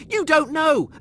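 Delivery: high, loud, punching you; heated outburst. Acted. Rimmer raging at Lister that nobody knows death. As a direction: hurl it at him.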